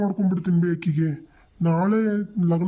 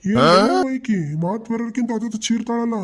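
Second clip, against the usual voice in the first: exasperated outcry; 3 semitones higher than usual. Acted. Son exasperated by shouting.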